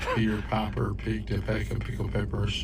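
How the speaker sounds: lisping tongue twister after surgery. Real, not acted. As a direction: say it with a sore-mouth lisp. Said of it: "a little bit of a lisp right now".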